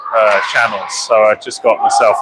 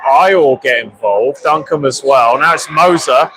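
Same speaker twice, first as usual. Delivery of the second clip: steady live hockey commentary; play-by-play. Acted. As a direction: call the game as it unfolds.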